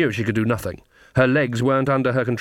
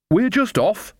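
put-on high, cheery old-woman voice; bright; 9 semitones higher, slower than usual. A narrator's reading. Old witch excuses herself to the sisters, brightly. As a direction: chirp it lightly, pitched well up. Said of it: "said Nanny Ogg brightly".

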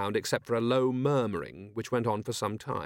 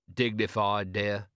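meekly dutiful husband; understated henpecked compliance; slower than usual. Acted. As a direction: answer like a resigned, obedient husband. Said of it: "You're using your henpecked voice".

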